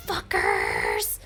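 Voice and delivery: very low growly demon voice; deep bad conscience. Bad conscience answering chat, deep and low. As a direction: drop it to the basement.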